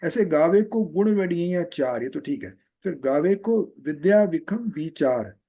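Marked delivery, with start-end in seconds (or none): 2.9-5.4 विचार said without the final ू, slowly; correct pronunciation. Shown as a demonstration. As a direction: end on विचार, dropping the u. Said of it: "विचारू नहीं बोलेंगे".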